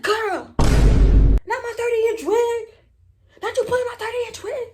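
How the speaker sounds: high-pitched mock protest; high, indignant retold outcry; acted outrage. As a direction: wail it in dramatic dismay. Acts out protest at yanked wig.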